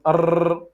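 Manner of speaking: 'Ar' with a long rolled R; over-trilled R. Shown as a demonstration. Teacher showing students what not to do, over-rolled R. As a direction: roll the R on and on in 'Ar'. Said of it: "It is not".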